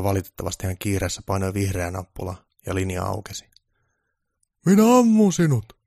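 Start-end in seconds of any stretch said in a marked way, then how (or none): 4.7-5.8 high, loud furious yell; roaring threat. Acted. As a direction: shout it at the TV enemy. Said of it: "pukki jatkoi karjumistaan".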